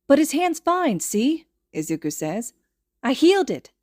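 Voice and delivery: high, bright insistence; insistent child. Acted. Boy insisting to his mother that he healed it, high. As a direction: protest eagerly. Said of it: "child insists".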